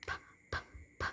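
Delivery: "P" popped with breath only; unvoiced P. Shown as a demonstration. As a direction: separate little puffs of "P", no vocal cords. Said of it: "because it's no voices".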